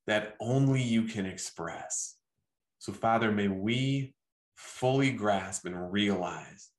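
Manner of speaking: measured, gently paced spoken blessing; closing prayer. Real, not acted. Preacher asks the Father to bless everyone listening, closing prayer. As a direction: pray over the listeners in unhurried phrases with pauses.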